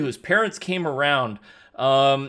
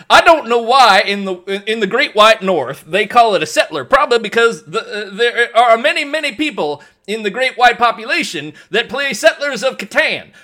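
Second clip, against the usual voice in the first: raised, hammed-up Canadian voice; Canadian accent; 6 semitones higher, 6 dB louder than usual. Canadian explaining the Great White North, Canadian accent. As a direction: keep up the mock Canadian. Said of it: "I'm a Canadian".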